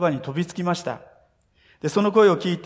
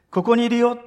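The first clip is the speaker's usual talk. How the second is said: put-on higher, louder call of a mother to her child; mother reassuring a frightened child, raised calling voice; 6 semitones higher, 5 dB louder than usual. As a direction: call out so the lost child hears you.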